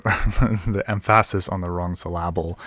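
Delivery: "emphasis" stressed on the middle syllable, em-PHA-sis; wrong-syllable stress. Shown as a demonstration. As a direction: jokingly shift the stress of "emphasis" onto PHA. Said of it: "putting the wrong emphasis".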